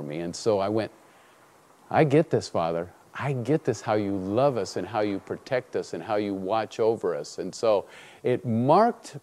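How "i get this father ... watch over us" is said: soft, sincere prayer; quiet, reverent acknowledgement; hushed realisation. Retold or imitated. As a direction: speak softly to God, lower and humbled. Acted moment of realisation in prayer.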